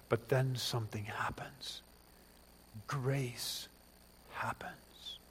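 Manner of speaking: hushed, awed whisper. Acted. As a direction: whisper it like a secret revealed. Dramatic hush before grace.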